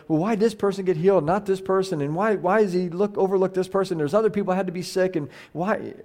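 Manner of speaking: fretful questioning, lightly acted; mock questioning. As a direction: lightly imitate someone stuck on why. Voicing people's puzzled questions.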